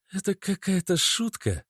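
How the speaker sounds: high girlfriend, a hint of a tremble; trembling voice. A narrator's reading. Natasha asks Oleg, with a slight tremble. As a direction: ask fearing the answer. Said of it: "спросила она дрожащим голосом".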